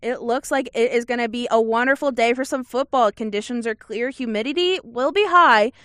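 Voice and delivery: upbeat TV weather report; weather girl voice. Pretend. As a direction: present it like a TV meteorologist. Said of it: "let me put on my weather girl voice".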